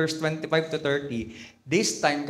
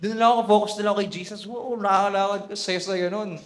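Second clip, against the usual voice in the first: delighted wonder; 5 semitones higher than usual. Pretend. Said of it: "Kung ako yun".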